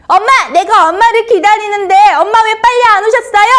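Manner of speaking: put-on fast, high, loud whiny kid; acted childish whining in a put-on high voice; child's grumbling. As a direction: pester mom with a rushed complaint. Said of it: "엄마한테 막 투정 부리지는 않았나요?".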